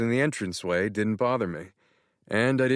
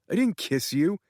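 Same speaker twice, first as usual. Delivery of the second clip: much higher, gushing excited friend; excited Tanner; 9 semitones higher than usual. Acted. Tanner thrilled, congratulating Matt on being in love. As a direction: gush as if he just found out.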